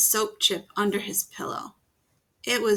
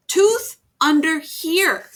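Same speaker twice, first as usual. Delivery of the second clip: loud slow sign; 8 semitones higher, 9 dB louder, slower than usual. A narrator's reading. Sign read out big.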